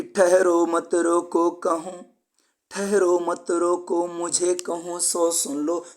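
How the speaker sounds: slow verse line, ठहरो lifted; poem recitation. Shown as a demonstration. Teacher quotes the alliteration example line slowly. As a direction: draw out ठहरो and let the line unfold slowly.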